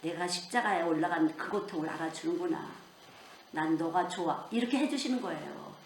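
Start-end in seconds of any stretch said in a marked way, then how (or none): 0.0-4.5 lower, understated contentment; pleased, tender Jesus. Acted. Jesus answers a believer who loves him, quietly pleased. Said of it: "흐뭇해하세요".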